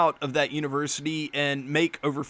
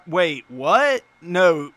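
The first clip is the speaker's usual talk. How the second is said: wait, what, caught off guard and louder; sudden disbelief; 6 dB louder, much slower than usual. Real, not acted. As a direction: stop short in real disbelief. Shocked at the card's stats.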